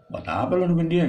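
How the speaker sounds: high, loud street-slang question; casual slang. Shown as a demonstration. Teacher showing students the slangy way to ask. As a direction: toss it off like a mate. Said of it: "Gitu bahasa gaul".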